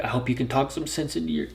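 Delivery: a lightly voiced tearful woman pleading at the garage door; imitating crying ex-girlfriend. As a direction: voice her begging the kid to help. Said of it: "She was just like".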